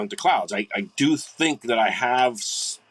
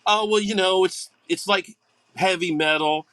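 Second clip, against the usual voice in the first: higher, hedging mock voice of a bandmate; a lightly voiced embarrassed bandmate, squirming; mock evasive answer; 7 semitones higher than usual. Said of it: "would go".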